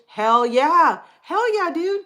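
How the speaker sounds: loud, high whoop of approval; real delighted outburst, rising high; excited cheer. Real, not acted. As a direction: cheer them on, pitch climbing. Cheering a viewer's story.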